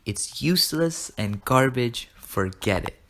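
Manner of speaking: slow, measured acted dismissal; drawn-out verdict, dropping on "Forget it"; deliberate repeat. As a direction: repeat it slowly so it sinks in. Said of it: "I repeat".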